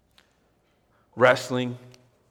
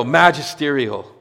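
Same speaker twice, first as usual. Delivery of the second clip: slow, louder call of "Magisterial."; yelled magisterial; 2 semitones higher, 5 dB louder than usual. Shown as a demonstration. Preacher to congregation, crying out "Magisterial." in a slow loud yell. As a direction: belt out "Magisterial." like a stadium cheer. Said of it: "you just wanna yell".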